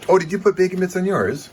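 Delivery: high, loud put-on voice; squeaky, showy mock-posh voice; weird voice. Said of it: "Why am I talking in this weird voice?".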